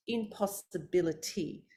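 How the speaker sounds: impossibility slow, every syllable distinct; slow and articulated. Shown as a demonstration. Coach modelling slow, careful syllables. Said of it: "pronounce every syllable".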